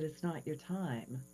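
soft and slow verdict; gentle Jesus. Retold or imitated. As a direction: quietly tell her to go back. Jesus speaks to her.

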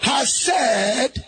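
shouted declaration for the crowd to echo; loud call-and-response declaration. Shown as a demonstration. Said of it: "Say with me very loud".

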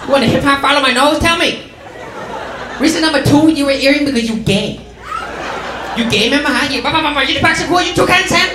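mom. Retold or imitated. Mom's lecture voiced in the bit.

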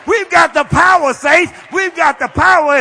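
rally the church with power; full-force preacher's shout; preaching at full force. Real, not acted.

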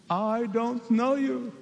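very slow, cold refusal; the bridegroom's slow, final rejection; stern bridegroom. Acted. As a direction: draw each word out like a closing door. Bridegroom rejects the foolish ones.

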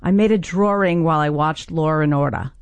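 put-on old Long Island accent with intrusive R's; Long Island twang, R stuck into drawing and Law. Shown as a demonstration. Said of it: "revert to my long-lost Long Island accent".

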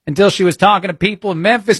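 usual speaking voice

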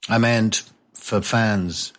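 ordinary talk

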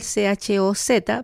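C H O Z spelled out letter by letter, slow; slow spelling aloud; spelling slowly. Shown as a demonstration. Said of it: "se escribe con la letra Z".

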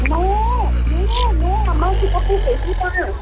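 scared mother begging for answers; mother frantic that her sister has left; real panic. Real, not acted. Mother panics over prank call.

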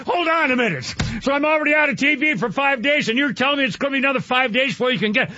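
fast, exasperated protest; indignant. Retold or imitated. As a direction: push back, getting worked up. Outraged customer arguing on phone.

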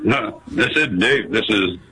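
mock radio announcer voice. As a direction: deliver it like a DJ intro. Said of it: "doing my radio voice".

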